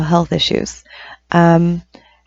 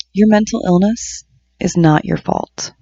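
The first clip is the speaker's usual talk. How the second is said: deliberate recital, slowing on the closing phrase; affirmation poem reading. Acted. Poet speaking to herself in the mirror, deliberate affirmation reading. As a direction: recite each affirmation as its own measured statement.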